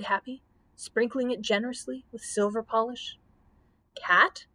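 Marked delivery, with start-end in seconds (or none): 4.0-4.5 louder, rising shocked question; an understated storybook shriek; mild mock shriek. A narrator's reading. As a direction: burst out in startled horror, lightly acted. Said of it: "shrieked the Scarecrow".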